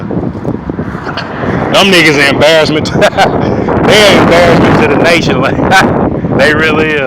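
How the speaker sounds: talking through chuckles; laughing. Real, not acted. Ranter calls the team a national embarrassment, laughing. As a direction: let laughs break up the jab.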